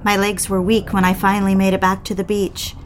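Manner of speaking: calm first-person audiobook narration; story narration. A narrator's reading. Wife recounting the night swim to listeners, calm narration. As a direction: tell it as an intimate memory, evenly paced.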